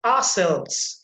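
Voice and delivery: ourselves with SELVES punched; stress on SELVES. Shown as a demonstration. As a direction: lean on the second part of ourselves. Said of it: "you see, selves".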